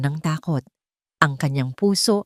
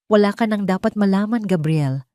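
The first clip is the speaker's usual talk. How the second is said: stern; 4 semitones higher than usual. Acted. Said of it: "matigas na sabi ni Victoria".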